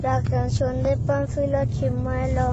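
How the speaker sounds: lisping through gaps in teeth; talking with gappy front teeth; missing front teeth. Real, not acted. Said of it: "Ya se me cayeron ocho dientes". (sin dientes de enfrente)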